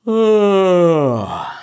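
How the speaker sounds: loud high yawn sliding down; descending yawn. Shown as a demonstration. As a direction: yawn it downward. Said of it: "like that".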